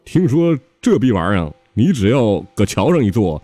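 lightly voiced eager disciple; Sha Seng. Junior disciple sells a bus ride to his master, mildly eager. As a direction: pitch it up a touch, pleading the case. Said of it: "这时候沙僧就掏出来".

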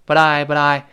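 "but I" joined with a quick d-like tap; light tongue flap. Shown as a demonstration. Teacher explains the tongue tip, "but I" with light flap. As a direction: flick the tongue once between "but" and "I". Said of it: "轻轻的舌尖儿带一下".

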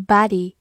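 "body" with a wide-open American vowel; American pronunciation. Shown as a demonstration. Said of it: "美式发音口型比较大". (美式发音，"body"口型较大)

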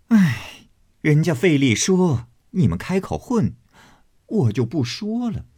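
laughing complaint. Acted. Xifeng scolds the interrupting guests, laughing mock sulk. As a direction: pretend to sulk while laughing. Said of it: "凤姐儿起身拍手笑道".

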